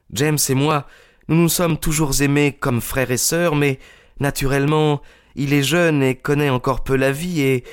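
put-on high, earnest young woman's voice; high, insistent young woman's voice; young Miss Turner. A narrator's reading. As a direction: plead passionately for the man she loves. Turner explains the quarrel.

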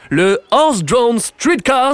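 put-on English-accented, savoured slowly. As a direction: lay on a posh English accent for "Horse-Drawn Streetcars". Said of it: "ah, toujours mon accent anglais".

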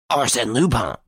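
high-pitched, stunned repetition; stunned echo. A narrator's reading. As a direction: echo the name in shock. Varin echoes the name, stunned.

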